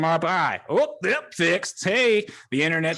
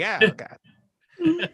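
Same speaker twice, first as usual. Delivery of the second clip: mock panic; 5 semitones higher, much slower than usual. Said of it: "you know, like".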